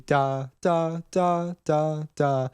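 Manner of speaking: short, spaced-out "da" syllables; staccato. Shown as a demonstration. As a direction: cut each "da" short with a gap after it, none emphasized. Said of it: "spaced out, shorter".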